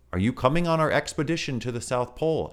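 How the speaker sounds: put-on a small child keen on an adventure; baby kangaroo voice. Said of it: "asked the baby kangaroo".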